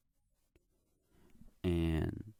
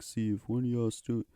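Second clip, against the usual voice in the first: teacher; 3 semitones higher than usual. Retold or imitated. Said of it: "he's like".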